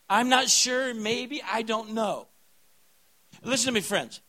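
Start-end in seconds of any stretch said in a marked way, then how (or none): 0.1-2.3 wishy-washy doubt. Retold or imitated. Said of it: "a kind of sort of faith".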